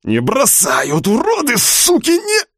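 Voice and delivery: rising to a choked high scream; strangled cry. Acted. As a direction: fight through it until choked off. Fighting, being strangled.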